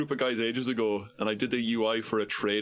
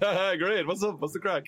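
matching her energy; 8 semitones higher than usual. Retold or imitated. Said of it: "just matching her energy".

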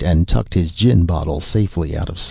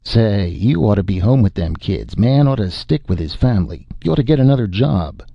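put-on drunk moralizing; 3 semitones higher than usual. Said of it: "waggled a moralistic finger".

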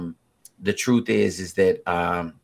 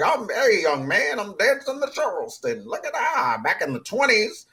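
high, hammed-up old dancer voice; spry oldster voice; 13 semitones higher than usual. Host picturing a Charleston dancer, high comic oldster voice. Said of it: "I just pictured in my head".

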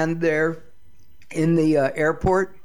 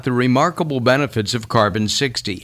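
loud, quick pitchman read; 6 dB louder than usual. Acted. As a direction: sell it like a radio spot. Host reads live ad.

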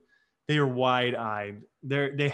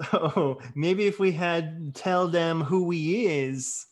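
slow cartoon baby voice; 3 semitones higher than usual. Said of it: "You can be Rogue".

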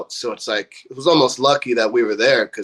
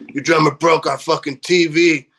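mock angry complaint, raised pitch; pissed off; 4 semitones higher than usual. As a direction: imitate an irritated accuser. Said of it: "walked away all pissed".

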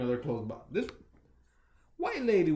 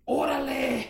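Mexican Spanish exclamation; 10 semitones higher than usual. Retold or imitated. Friend retelling the manager's reply, Mexican accent. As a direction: say Órale like a Mexican guy. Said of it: "I think he said".

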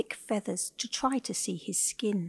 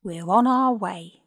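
eager call; 8 dB louder than usual. A narrator's reading. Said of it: "Ava cried".

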